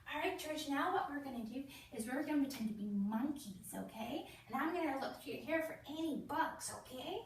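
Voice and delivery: put-on lightly sing-song voice for a small child; playful nurse voice for a little boy; talking to a child. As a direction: coax a four-year-old gently. Nurse talks to child patient.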